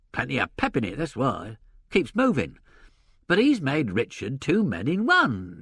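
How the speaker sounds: lively agent voice working it out; gruff theatre agent. Acted. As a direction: voice a blustering old stage agent. Sullivan lectures on Shakespeare.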